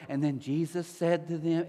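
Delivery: mild mock Bible-school storytelling; storybook reading. Pastor mimicking how we read it at VBS, mild storybook tone. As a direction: lightly imitate a gentle children's story reader. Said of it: "read this story like V B S".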